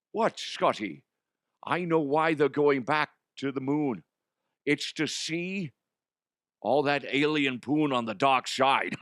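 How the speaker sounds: measured comic character voice, slurred esses; Connery. Acted. Connery character repeats his revelation calmly.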